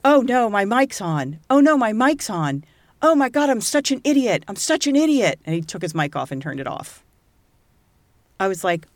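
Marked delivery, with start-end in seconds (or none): 0.0-5.4 higher, louder, mock-panicked self-scolding; adult son panics that his mic is still on. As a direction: voice him realizing the mic caught everything.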